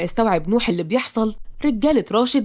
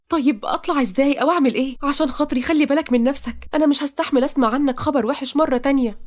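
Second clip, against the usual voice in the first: higher, pleading female lead; worried heroine; 6 semitones higher than usual. Acted. Heroine begs her beloved to take care, worried. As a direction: beg him anxiously in a raised voice.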